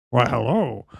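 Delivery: slow, drawn-out suave introduction; badly faked sophistication, savouring each name; bad James Bond. Trying to act sophisticated for a woman, bad Bond. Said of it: "he does a shit James Bond impression".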